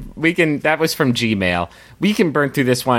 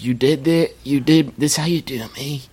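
lightly acted, slightly higher hurt questioning; betrayed Caesar; 4 semitones higher than usual. Caesar to Brutus as he is stabbed, mock betrayed. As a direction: play Caesar in mock disbelief at his betrayer. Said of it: "when Caesar's like".

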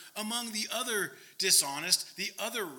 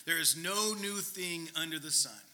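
half-choked attempt at a Scottish accent; 4 semitones lower than usual. Preacher mimicking his old pastor once more, half-choking Scottish accent. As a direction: push out a throaty Scottish accent. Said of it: "half choking in order to do a proper Scottish accent".

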